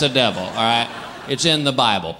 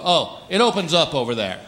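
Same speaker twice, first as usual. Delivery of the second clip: know-it-all excuse. Retold or imitated. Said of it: "this is the guy who'll go".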